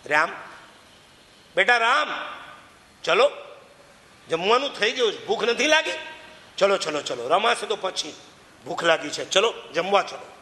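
loving call to come and eat, softening at the end; a mother coaxing her children to the meal. Retold or imitated. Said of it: "એક જ બૂમ પાડી". (પ્રેમથી બાળકોને જમવા બોલાવતી માતા)

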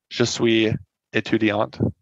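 a self-admittedly bad French accent; an English speaker's rough French attempt; terrible French accent. Shown as a demonstration. Lecturer reads the French example to students, in a bad French accent. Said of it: "excuse my terrible accent".

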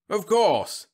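high-pitched, loud soothing assurance. A narrator's reading. General calming shocked Whitlow, soothing. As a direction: brush worries away heartily. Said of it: "said Webb soothingly".

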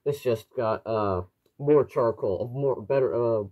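muffled through a gas mask; speaking through a tight respirator mask. Real, not acted. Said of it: "You should be able to hear me, uh, quite clearly through the, uh, voice diaphragm".

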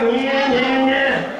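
"Yeah, yeah, yeah" pushed out with a grumbling edge; fuller, put-upon "yeah, yeah, yeah"; grudging complaining yeahs. Shown as a demonstration. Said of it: "it just comes out like".

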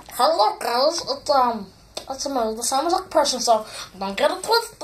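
lightly voiced goofy character; a hint of a silly voice, greeting viewers; silly put-on voice. Shown as a demonstration. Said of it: "couple voices I can do".

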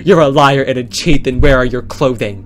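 loud, outraged shout; angry yelling. Pretend. Girlfriend character storming out on Chris, angry shout.

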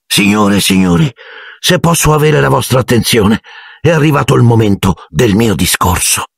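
high-pitched call for attention. A narrator's reading. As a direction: address the crowd formally. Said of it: "alzando la voce".

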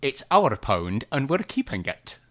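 slow Scottish accent, like Alex Salmond; slow, deliberate Scottish accent for the political slogan; Alex Salmond impression. Shown as a demonstration. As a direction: deliver the Salmond catchphrase in a Scottish accent, slowly. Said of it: "Do your impression".

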